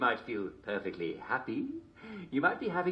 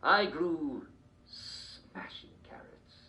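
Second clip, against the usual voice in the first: lightly voiced eccentric old king, giddy; a hint of a batty royal, cheerful; Mad King George. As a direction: play a dotty king chatting on a talk show.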